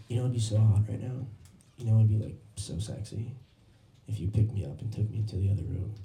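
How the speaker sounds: soft, low imitation of a date's come-on; hushed and low, as if coaxing a lover; quietly suggestive, retold; seductive.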